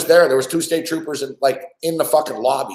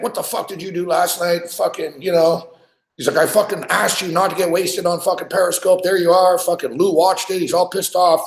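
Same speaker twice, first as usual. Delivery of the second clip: higher-pitched imitation of an angry boss; retold going off; 5 semitones higher than usual. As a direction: play a boss chewing someone out, mildly. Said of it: "He's going off and shit".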